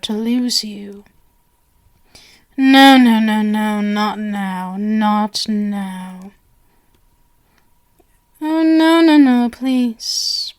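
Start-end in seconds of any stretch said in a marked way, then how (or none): 2.6-6.3 alarmed no. Acted. Stopping guest leaving. 8.5-10.5 alarmed protest. Acted. Guest tries to bolt.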